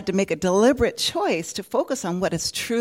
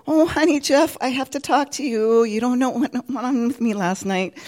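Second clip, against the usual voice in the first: high, loud anxious outburst to her husband; blurting out guilt, urgent; ashamed confession; 5 semitones higher, 6 dB louder than usual. Retold or imitated. Karen confesses to her husband Jeff, anxious and loud. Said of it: "and I said".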